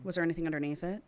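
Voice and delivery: measured audiobook-style reading; story narration. A narrator's reading. Co-host reads a romance novel to the other, measured narration. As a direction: read the passage aloud evenly.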